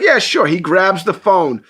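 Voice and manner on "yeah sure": imitating Mister Beast.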